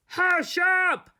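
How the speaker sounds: high, loud snap to silence; angry scream. A narrator's reading. Toad silences the strange voice, angry and high. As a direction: cut the announcer off. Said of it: "screamed Toad".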